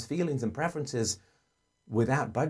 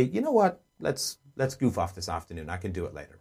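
sympathetic offer; 6 semitones lower, 3 dB quieter than usual. Shown as a demonstration. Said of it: "then say".

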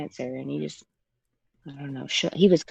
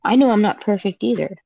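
repeated louder for clarity; 3 semitones higher, 6 dB louder than usual. Real, not acted. Caller repeats herself louder after the host mishears. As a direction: say it again louder so he hears. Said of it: "I'm sorry?".

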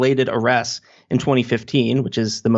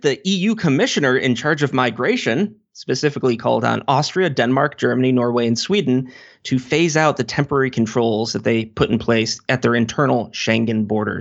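normal talking voice

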